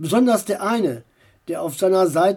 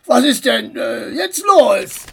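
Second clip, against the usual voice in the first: startled driver; 4 semitones higher, 5 dB louder than usual. Acted. Driver startled after braking.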